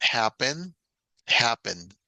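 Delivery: happen and happened stressed on the first syllable; English pronunciation model. Shown as a demonstration. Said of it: "el acento no va en la última sílaba".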